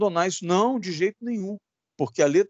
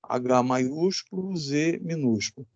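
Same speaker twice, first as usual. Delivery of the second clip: slow dictation; 2 semitones lower, slower than usual. Shown as a demonstration. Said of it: "ó".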